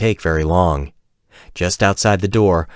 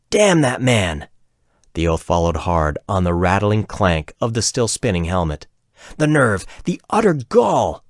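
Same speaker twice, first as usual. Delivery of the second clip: furious outburst. Acted. Martine raging alone at Vil after being left out, furious. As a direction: spit out her fury alone in the room. Martine swears, kicking her helmet.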